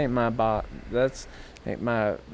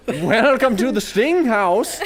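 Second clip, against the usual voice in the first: slow, high, loud insect host; mock wasp; 11 semitones higher, 4 dB louder, slower than usual. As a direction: draw it out as a taunting wasp. Voicing the stinging wasp.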